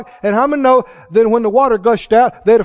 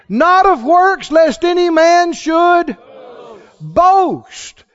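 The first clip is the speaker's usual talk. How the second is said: slow, rising, louder scripture preached with force; preaching scripture; 5 semitones higher, 3 dB louder, much slower than usual. Real, not acted. Preacher proclaiming grace against boasting. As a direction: build the verse to a shout.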